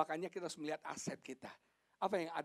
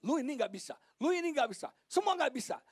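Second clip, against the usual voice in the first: imitating a wife's scolding, building higher; mock nagging wife; 11 semitones higher, 6 dB louder than usual. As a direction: nag lightly in rising repeated jabs. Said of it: "Istri saya suka ngomel". (menirukan istri ngomel, nada makin tinggi)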